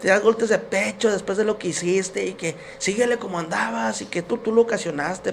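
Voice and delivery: lightly voiced wife's string of accusations; imitated reproachful wife. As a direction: scold as a fed-up wife would. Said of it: "mi esposa".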